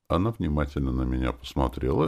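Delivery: usual speaking voice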